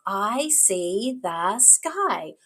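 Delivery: very slow, words on separate beats; clapped word by word. Shown as a demonstration. Teacher confirms the words to child, slowly segmented. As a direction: count out each word slowly. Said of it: "Let's clap those words".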